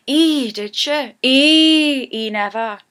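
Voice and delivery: lightly voiced Geordie girl gossiping; chatty Geordie lass gasping at news. Shown as a demonstration. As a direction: Geordie girl trading gossip with her friend. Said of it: "That is just a Geordie girl phrase".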